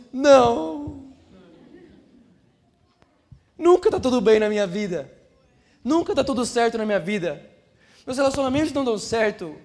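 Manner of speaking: hammed-up complaining. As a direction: moan theatrically about every part of life. Acted complainer answering a friendly greeting.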